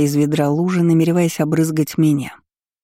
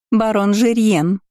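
triumphant announcement; 6 semitones higher, slower than usual. Acted. Cousin announces the groom.

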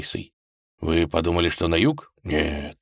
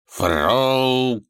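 higher grumbled «Фрол»; grumbling; 7 semitones higher, 3 dB louder than usual. A narrator's reading. The tsar grumbles at the peasant Frol, sullen. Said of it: "хмуро буркнул царь".

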